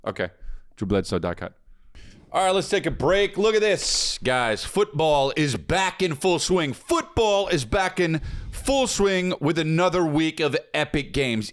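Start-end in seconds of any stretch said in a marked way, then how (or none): 2.3-11.5 punchy, drawn-out sponsor pitch; hyped ad read. Acted. Host pitching sports betting to listeners, hyped ad read. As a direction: sell it with big stressed key words.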